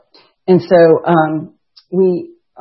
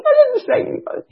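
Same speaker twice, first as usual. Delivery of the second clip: proud boast. Retold or imitated. Bragging quote to coworkers.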